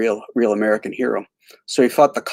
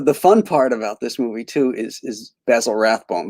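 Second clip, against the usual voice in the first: normal talking voice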